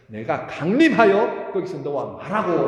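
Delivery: loud, slow, deliberate quoting of the verse; verse proclaimed slowly to the hurting; solemn verse quote. Acted. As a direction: weigh each word of the promise. Verse quoted again for emphasis.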